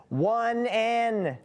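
high, searching delivery; drawn-out guess. Pretend. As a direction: raise and hold the words while guessing. Guessing a whispered phrase.

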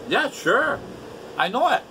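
sarcastic. Acted. Sarcastic about friend's motives.

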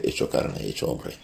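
dropped almost to a whisper; hushed. Real, not acted. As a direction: let the words fall away, hushed and reverent. Sermon climax, Dios hecho hombre. (casi susurrado, con reverencia)

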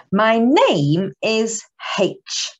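slow, drawn-out teaching voice; slow clear phonics model; slow model phrase. Shown as a demonstration. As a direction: say each word slowly for the children. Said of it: "Can you do that?".

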